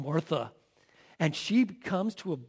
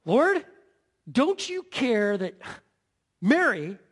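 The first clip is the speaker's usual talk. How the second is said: loud high cry of Lord, then slower reproach; indignant Martha; 4 semitones higher, 4 dB louder, slower than usual. Acted. Upset Martha storming in to confront Jesus, indignant. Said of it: "Did you see that?".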